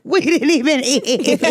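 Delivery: slow, high, drawn-out mock whine; slow drawn-out repeat. Repeating the crab story punchline, slow and drawn out. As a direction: stretch each word out in disbelief. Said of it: "we was like".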